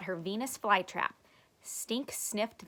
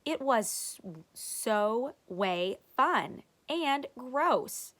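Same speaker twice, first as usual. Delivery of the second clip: put-on excited kid voice; 4 semitones higher, 5 dB louder, slower than usual. A narrator's reading. Stink excitedly voiced in story.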